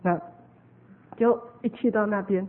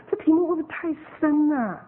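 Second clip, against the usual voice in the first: imitated doubtful question, higher pitch; worried query; 5 semitones higher than usual. Host doubting that the topic suits seekers, worried query. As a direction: voice someone's concern, pitched up.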